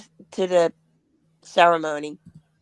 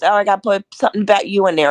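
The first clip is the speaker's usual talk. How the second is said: eager retold quote; 7 dB louder, much faster than usual. Friend insisting, eager.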